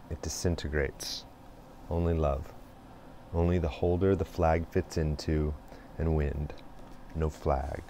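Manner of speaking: measured poetry reading with pauses between lines; poem reading. Acted. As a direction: read the poem out deliberately, line by line. Reads a Rumi poem aloud.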